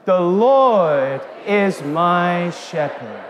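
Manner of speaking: slow, drawn-out unison line; chanting scripture together; congregation recitation. Shown as a demonstration. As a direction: lead the room through it. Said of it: "Let's say that again".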